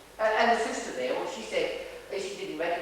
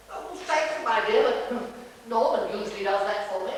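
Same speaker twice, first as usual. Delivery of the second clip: Sir's voice. Acted. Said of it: "he said to her".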